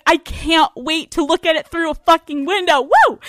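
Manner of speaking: high, fake-thrilled, topped with a whoop; sarcastic excitement. Traveler facing lockdown answers the ravers, sarcastically excited. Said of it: "And I'm like".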